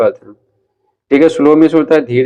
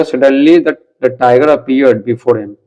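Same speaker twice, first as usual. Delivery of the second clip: slow reading aloud; much slower than usual. Shown as a demonstration. Teacher reads English line slowly.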